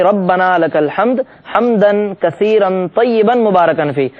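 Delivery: ربنا لک الحمد حمدن کثیرن طیبن مبارکن فی slowly, every sound clear; full phrase recited deliberately; correct pronunciation. Shown as a demonstration. Teacher modelling the complete phrase for viewers, slow and precise. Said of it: "علی وجہ الکمال ادا کریں".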